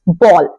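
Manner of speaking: बॉल said as "bowl", with a long o; बॉल rhymes with "hole", not "howl"; बॉल said clearly as "bōl"; correct pronunciation. Shown as a demonstration. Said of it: "इसका correct pronunciation होता है".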